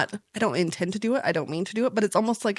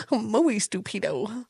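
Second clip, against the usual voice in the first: mock Spanish accent; 4 dB quieter, much slower than usual.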